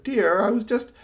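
high, mildly pleading excuse; a touch of being cut off mid-plea; lightly protesting husband. Acted. Husband answers practical wife, mildly protesting.

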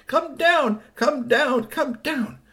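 high, repeated holler; yelling. A narrator's reading. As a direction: yell up at someone in a tree, pitch way up. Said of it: "kept yelling".

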